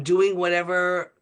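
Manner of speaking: words squeezed out while choking. Real, not acted. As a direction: fight a choke in the throat. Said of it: "excuse me, I'm choking".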